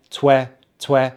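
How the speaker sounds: "twe" as T-W plus short e; sounding out. Shown as a demonstration. Teacher building twelfth for learners, sounding out "twe". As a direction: say "twe" as a separate chunk, vowel as in pet. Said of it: "So we start with the T W".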